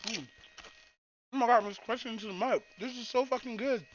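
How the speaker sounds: talking with a mouth full of chili; chewing noisily. Real, not acted. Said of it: "Sorry I'm eating now".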